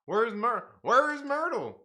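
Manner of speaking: high, loud excited call. Real, not acted. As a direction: call out for him eagerly. Calling for Myrtle.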